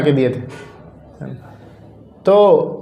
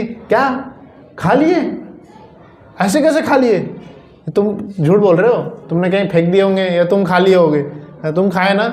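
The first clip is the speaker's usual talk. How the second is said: a mother who won't believe her son; disbelieving mother. Retold or imitated. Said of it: "mummy को विश्वास ही नहीं हुआ".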